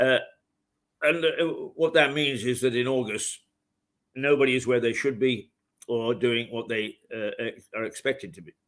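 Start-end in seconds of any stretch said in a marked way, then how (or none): 4.2-8.5 hiccups. Real, not acted. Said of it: "Oh, I've got the hiccups".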